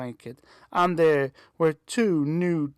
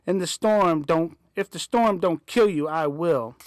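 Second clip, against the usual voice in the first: angry father threat; 4 dB louder than usual. Acted. Father threatens fleeing girl.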